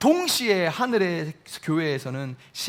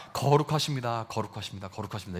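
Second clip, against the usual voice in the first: softer and lower, fading to a breath; hushed reverent praise; 9 semitones lower, 8 dB quieter, faster than usual. Acted. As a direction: trail off into awed quiet. Angels' praise quoted again.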